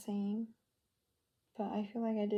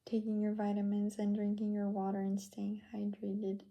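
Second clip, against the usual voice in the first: whispering. Real, not acted. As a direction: whisper so nobody wakes. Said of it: "I'm using my whisper voice".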